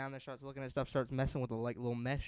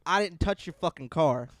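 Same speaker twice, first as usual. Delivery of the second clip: mock furious grandpa; 2 semitones higher, 12 dB louder than usual. Grandfather loudly telling the stranger to call the cops. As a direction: bark it back at him.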